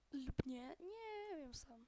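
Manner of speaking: words broken by hiccups; talking through hiccups. Real, not acted. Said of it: "że mam czkawkę".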